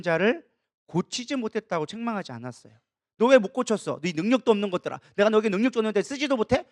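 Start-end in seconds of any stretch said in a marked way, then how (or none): 3.2-6.6 a touch of a rebuking teacher, a bit louder; half-acted reproach of lazy pupils; mock scolding. Preacher imitating Jesus scolding disciples, mild mock anger. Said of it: "이렇게 혼내키지 않았다".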